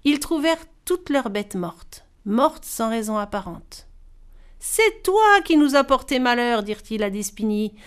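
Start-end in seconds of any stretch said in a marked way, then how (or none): 4.6-6.6 loud, blaming accusation; accusing farmers. Acted. Farmers angrily blaming the little orphan girl, loud. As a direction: throw the blame at the girl. Farmers blame and drive her off.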